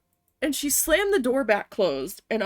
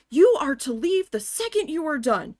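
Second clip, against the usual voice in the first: loud, raised mock yell of an order; imitated screaming; 7 semitones higher, 7 dB louder than usual. Office manager storming in on the worker, imitated screaming. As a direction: imitate a boss screaming, higher and louder. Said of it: "she starts screaming at me".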